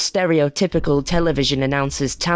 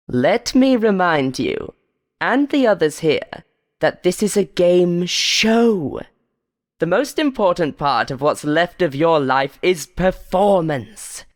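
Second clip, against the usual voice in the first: menacing game show host; 3 semitones higher than usual. Acted. Host warning the contestants, menacing. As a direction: lean on every word like a threat.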